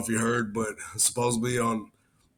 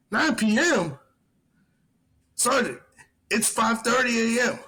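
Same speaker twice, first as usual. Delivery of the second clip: retold disbelief; 9 semitones higher than usual. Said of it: "retold exchange".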